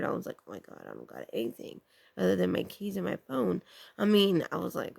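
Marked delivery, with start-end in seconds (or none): 0.5-3.6 softer retold worry; kinda scared. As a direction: mutter a mildly scared thought to yourself. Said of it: "I was getting kinda scared".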